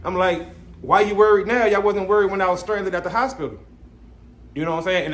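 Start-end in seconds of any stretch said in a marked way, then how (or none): 0.8-3.6 retold snap, louder and higher; snapping back. Snapping back at the assistant band director. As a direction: bite back at him, mildly heated. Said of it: "I snapped back just like that".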